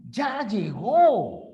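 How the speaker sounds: "Ya llegó" slow, loud, stretched with a big fall on "llegó"; enthusiastic. Shown as a demonstration. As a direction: show delight that they've arrived. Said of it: "Mostramos entusiasmo". (con entusiasmo)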